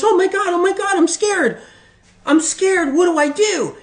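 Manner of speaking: high, hammed-up frightened squeak; mock panic. Person told to back off, squeaking in mock panic. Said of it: "And then the person goes".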